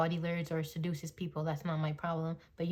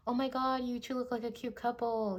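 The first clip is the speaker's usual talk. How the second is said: higher-pitched mock gushing compliment; friendly gush; 5 semitones higher than usual. Walking up to an insecure couple, friendly gush. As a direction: coo a compliment in a lifted voice.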